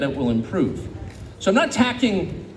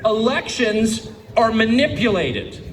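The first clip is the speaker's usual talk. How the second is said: slow quote, raised and deliberate; slow reading; 4 semitones higher, slower than usual. Real, not acted. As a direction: draw each word out for the audience. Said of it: "I want to read this slowly".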